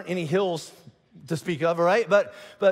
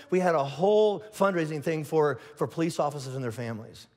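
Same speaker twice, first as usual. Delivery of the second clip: mock-sheepish, ending low; understated answerer; 3 semitones lower than usual. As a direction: answer modestly, fading down at the end. Acted reply to the questioner.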